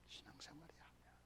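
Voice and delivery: hushed dramatic whisper; a whispered verdict to the listeners. Acted. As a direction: drop to a whisper for effect.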